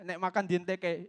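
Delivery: said in Javanese; casual Javanese accent. Shown as a demonstration. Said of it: "In Javanese accent".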